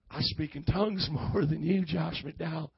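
Southern twang breaking into a laugh; lightly mock Southern preacher, amused; playful Southern twang. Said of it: "with a little twang on it".

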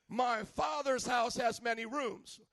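slow, loud, every word hammered; shouted scripture. Acted. Preacher shouting the verse to his congregation, slow and loud. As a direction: proclaim it to the back row.

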